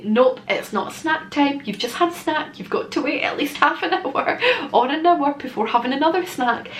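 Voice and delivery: lightly voiced mum explaining to a toddler; patient parent to toddler. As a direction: mum patiently telling her toddler snack time is over. Telling toddler no more snacks.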